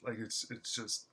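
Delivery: stammering over words in excitement; overwhelmed, stumbling and stammering. Real, not acted. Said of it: "you can tell by the way that I'm stammering right now".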